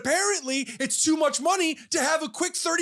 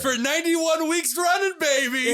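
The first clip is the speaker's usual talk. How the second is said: excited contestant; 4 semitones higher than usual. Acted. Contestant answering game show host.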